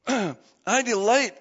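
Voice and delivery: I delight said very slowly, leaning on delight; stressed, slow. Shown as a demonstration. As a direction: savour each word of I delight.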